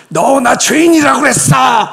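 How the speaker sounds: high, loud offended shout; indignant shout. Retold or imitated. A proud sinner shouting at his accuser. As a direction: snap back in offended outrage. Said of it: "이런 게 아니라".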